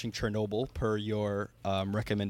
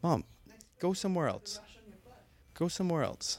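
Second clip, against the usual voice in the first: shooing; 7 semitones higher than usual. Real, not acted. Shooing his mom away.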